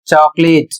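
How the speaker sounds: चॉकलेट begun with a "ch" sound; pronunciation demo. Shown as a demonstration. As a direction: say चॉकलेट as a model word, C read as "ch". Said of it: "इसे पढ़ा जा रहा है". (चॉकलेट का साफ़ उच्चारण, शुरू में च)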